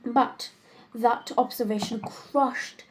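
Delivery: lightly acted Wildean lady, measured with dramatic pauses; exasperated society woman, theatrical. Woman complaining over dinner about her lover's dull proposals, theatrical exasperation. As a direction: complain wittily, lingering on the emphatic words.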